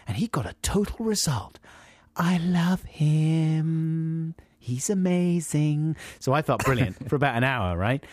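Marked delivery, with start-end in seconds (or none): 0.1-6.0 high, slow breathy whisper; awed whisper. Retold or imitated. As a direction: whisper it like a devoted fan. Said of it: "hear their thoughts".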